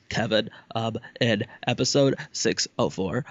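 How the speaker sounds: stammering fan question, lots of ums; halting, over-careful nitpicky asker; nitpicker voice. Shown as a demonstration. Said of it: "that's my new nitpicker voice".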